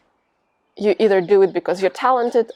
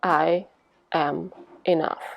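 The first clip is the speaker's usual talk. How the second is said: slow affirmation; 3 semitones lower, 5 dB quieter, slower than usual. Shown as a demonstration. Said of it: "Repeat after me".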